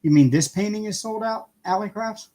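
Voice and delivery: surprised reply to a viewer's comment; surprised question. Real, not acted. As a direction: pop up in surprise at the news.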